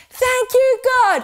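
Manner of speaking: yelled out. Shown as a demonstration. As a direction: belt it out with everyone. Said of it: "Once more".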